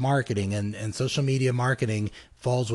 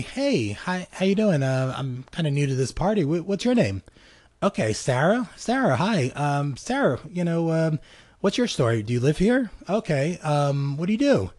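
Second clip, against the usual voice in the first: friendly curious guest; 3 semitones higher than usual. Pretend. Newcomer at a party asking Sarah about herself, friendly. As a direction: draw the other person out, gently curious.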